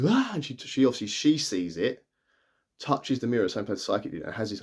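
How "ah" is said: short startled "Ah!", imitating shock; quick retold cry of shock; imitated gasp. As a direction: mimic a sudden shocked gasp. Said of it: "And she goes".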